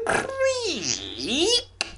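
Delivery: drawn-out, high creaky word; creaking door. Acted. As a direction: stretch CREAK like a swinging door.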